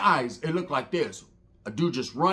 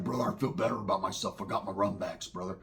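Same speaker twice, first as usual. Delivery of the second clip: mimicking partner; 9 semitones lower, 10 dB quieter than usual. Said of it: "He's like".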